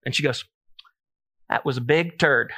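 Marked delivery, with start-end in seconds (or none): 1.5-2.5 laughing mock shout of a proud toddler; laughing quote. Dad retelling his daughter's boast, laughing mock shout. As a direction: blurt it out through a laugh.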